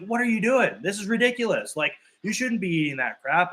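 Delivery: high-pitched exasperated scolding, mock anger; angry rant. Mocking himself scolding brother over McDonald's, high exasperated rant. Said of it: "I could get angry about it".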